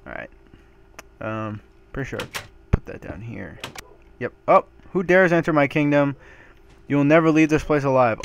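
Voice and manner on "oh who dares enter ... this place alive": booming evil king taunt; lightly voiced menacing ruler; villain boss voice. Voicing the boss taunting player.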